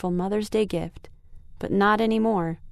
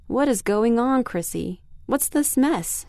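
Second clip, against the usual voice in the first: a mother's pitched-up demand, slowing on the mess; demanding mom; 3 semitones higher than usual. Acted. Mom bursting into the bedroom, demanding answers. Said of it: "she demanded".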